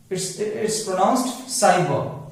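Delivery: "साइबर" with an s start, slowly; slow, careful s in "साइबर"; correct cyber. Shown as a demonstration. Teacher to class, modelling the s in "साइबर". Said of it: "काइबर नहीं बोलेंगे".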